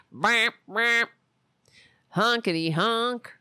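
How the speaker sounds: goofy clown horn noises; silly clown. Pretend.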